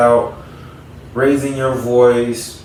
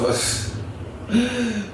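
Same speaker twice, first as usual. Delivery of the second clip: soft, high laugh falling away; real breathy chuckle; 10 semitones higher, 7 dB quieter than usual. Real, not acted. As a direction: let out a quiet amused laugh. Amused at solo-pleasure topic.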